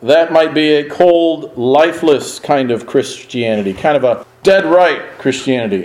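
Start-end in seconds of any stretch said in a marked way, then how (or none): 3.7-5.9 "dead" hit firmly, a touch of weight on it; stress on dead. Shown as a demonstration. Preacher warning his flock, stress on "dead". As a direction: lean hard on the word "dead". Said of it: "emphasis on the word dead".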